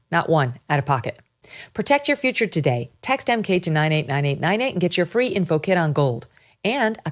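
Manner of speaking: polished host-read sponsor spot; measured, emphatic promo read. Acted. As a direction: read the ad copy with punchy emphasis on key words. Reads subscribe plug and gold ad.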